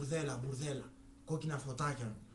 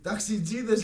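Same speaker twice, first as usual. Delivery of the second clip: punchline shouted out loud and higher; father blurting the answer, loud and higher; 5 semitones higher, 9 dB louder, slower than usual. Acted. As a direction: slam the last word of the joke.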